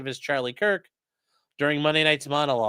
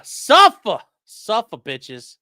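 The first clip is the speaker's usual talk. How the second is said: gloating; 4 semitones higher, 10 dB louder, much slower than usual. Real, not acted. Gloating at Kimmel's suspension.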